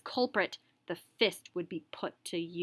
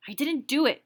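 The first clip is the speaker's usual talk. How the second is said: insisting on innocence; 5 semitones higher, 5 dB louder than usual. Acted. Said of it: "with an intense sense of his own innocence".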